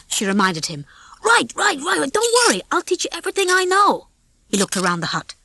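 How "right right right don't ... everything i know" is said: lightly voiced brash rooster, rattled; a slick rooster getting nervous; a hint of a fast-talking rooster, worried; cocky rooster. Rocky's voiced lines.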